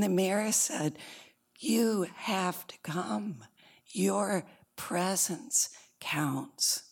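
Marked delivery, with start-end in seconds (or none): 1.6-6.8 slow, weighted retold appeal; earnest urging. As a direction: urge it slowly, word by word. Mayor urges the hiding little Who.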